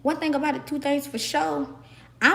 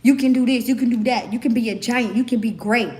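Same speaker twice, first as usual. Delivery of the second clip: encouraging friend; 4 dB louder than usual. Retold or imitated. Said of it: "who was telling me".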